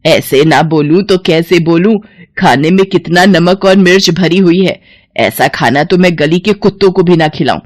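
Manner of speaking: mother-in-law's stinging rebuke; understated angry tirade; biting scolding. Acted. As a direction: scold her with contempt. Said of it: "सास की जली कटी बातें".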